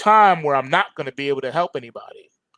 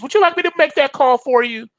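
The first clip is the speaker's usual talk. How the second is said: helpful house voice; 9 semitones higher than usual. Pretend. Smart house offers call.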